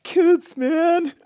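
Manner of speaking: put-on high, loud frustrated "No, kids, man"; exasperated outburst. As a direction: snap at the kids in mock exasperation. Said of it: "I'm like".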